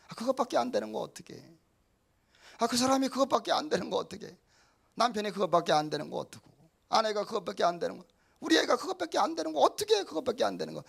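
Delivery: mock the impatient believer's scorn; exasperated complaining. Preacher mimics believers scorning weak family, exasperated.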